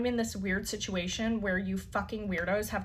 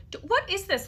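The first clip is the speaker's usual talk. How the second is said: pitched way up in shocked disbelief; a high incredulous squeak, half laughing at the absurdity; stunned disbelief; 10 semitones higher than usual. Retold or imitated. Reacting to a friend's news about Elon's messages, high-pitched shock.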